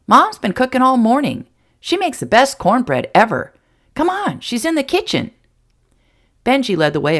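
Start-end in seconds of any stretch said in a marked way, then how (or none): 0.1-5.3 put-on high, loud excited kid; can hardly wait to go; boy asking about the horses; eager boy. A narrator's reading. Boy leads John in.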